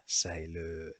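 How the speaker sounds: säilöön with a long ö at the end; säilöön, pitkä ö; long Finnish ö. Shown as a demonstration. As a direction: hold the öö in säilöön. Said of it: "the pair of them is pronounced as ö".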